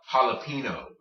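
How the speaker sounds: jalapeno as hal-a-PEE-no; H start but plain N in jalapeno; anglicized, no ñ. Shown as a demonstration. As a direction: jalapeno said the American way. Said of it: "It is not called".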